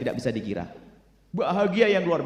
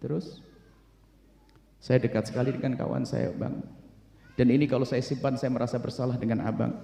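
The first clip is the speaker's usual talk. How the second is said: mild tearful confession; 4 semitones lower, 5 dB quieter than usual. Acted. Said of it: "sambil menangis".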